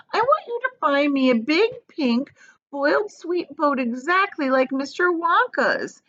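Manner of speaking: put-on high, whiny demanding child voice; spoiled girl demanding. A narrator's reading. Veruca begs her daddy for a boat, whiny and high.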